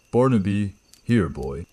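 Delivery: called out to a dog; calling out. Acted. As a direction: call the dog from a distance. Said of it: "I called out".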